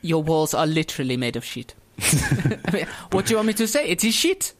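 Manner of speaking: mock French accent while bantering. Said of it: "you're doing a French accent".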